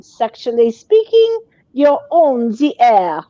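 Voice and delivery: lightly voiced high radio greeting; slow Dr. Ruth call-in greeting; Doctor Ruth impression. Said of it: "she always answered the phone".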